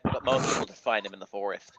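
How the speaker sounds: lightly voiced Jewish accent; a hint of a Jewish accent. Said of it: "sounds like you're doing the accent for it".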